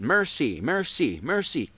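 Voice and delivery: "mercy" repeated evenly as "mer-sea"; phonetic mercy. Shown as a demonstration. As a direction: sound out "mercy" as two words, mer sea. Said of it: "Just phonetically, say it".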